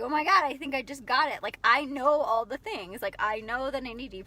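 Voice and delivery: high, loud sudden realization; excited. Retold or imitated. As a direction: burst out with an excited discovery. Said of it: "she's like".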